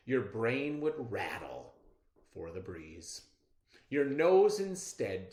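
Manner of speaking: measured read-aloud poem voice; expressive classroom poem reading. Acted. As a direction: read it like a storybook poem for kids. Second reading, listen for rhymes.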